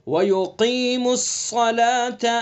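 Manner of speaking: "وَيُقِيمُوا الصَّلَاةَ" with thick qaf and sad; tajweed model of heavy letters. Shown as a demonstration. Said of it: "قاف کو پر پڑھیں گے".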